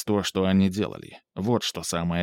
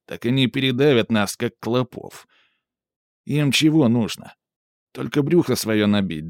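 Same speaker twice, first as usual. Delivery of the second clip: a heated working man ranting; raised, forceful street agitator; gruff stoker voice; 3 dB louder than usual. Acted. Günter's heated political rant.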